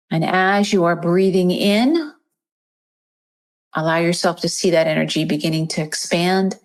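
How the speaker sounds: even meditation voice with long pauses; guided meditation. Acted. Host guides listeners to picture golden light in the chest, meditation voice. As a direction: guide them gently through the breath, leaving space.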